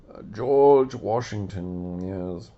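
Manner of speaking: slow, grand name announcement; lightly voiced George Washington. Washington announcing himself to the audience. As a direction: draw out the name with pride. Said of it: "But I am George Washington".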